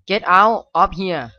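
slow fearful drawn out plea; dragged out get out. Real, not acted. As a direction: stretch it out in alarm. Scared by the game.

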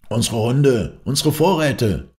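high-pitched, drawn-out wail; lamenting. A narrator's reading. Simpson sees the dogs and supplies attacked, lamenting. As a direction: lament the loss, pitch climbing. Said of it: "klagte Simpson".

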